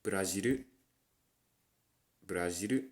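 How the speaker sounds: Brazilu with a rolled r and a final u; katakana English. Shown as a demonstration. Teaching katakana English, Brazilu. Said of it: "the English version is".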